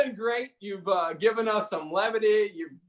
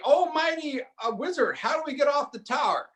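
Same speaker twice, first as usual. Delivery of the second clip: lightly voiced knights begging a wizard, raised pitch; slightly lofty, higher plea; knights pleading; 6 semitones higher than usual. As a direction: call up to a mighty wizard for help. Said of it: "And they say".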